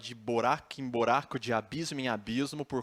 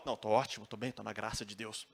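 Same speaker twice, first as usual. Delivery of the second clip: fake fine; 3 semitones lower, 4 dB quieter, faster than usual. Paulo fakes being fine.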